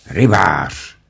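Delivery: loud defiant shout. Acted. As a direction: shout to give her strength. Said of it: "křikl Ulenšpígl".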